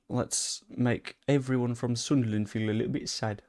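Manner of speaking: a weak attempt at a Sunderland accent. Teasing Sunderland viewers in a poor Sunderland accent. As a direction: try a northeastern Sunderland voice, loosely. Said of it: "That wasn't even nearly a Sunderland accent".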